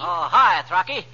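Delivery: sniffly head cold; sniffling. Acted. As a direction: speak through a sniffle. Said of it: "What are you sniffling for".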